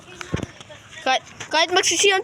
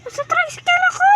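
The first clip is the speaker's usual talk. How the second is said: calling out; 10 semitones higher than usual. Real, not acted. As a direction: shout your hiding spot. Calling out hiding spot. (pasigaw na tawag)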